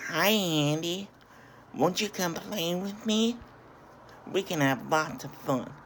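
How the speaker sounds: high, singsong little doll voice; creepy doll. Retold or imitated. Creepy doll invites Andy to play, high singsong voice. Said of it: "opens up to this creepy doll".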